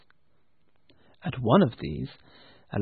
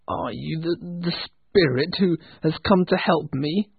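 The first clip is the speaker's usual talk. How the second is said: fearful; 4 semitones higher than usual. Acted. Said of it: "with fear in his voice".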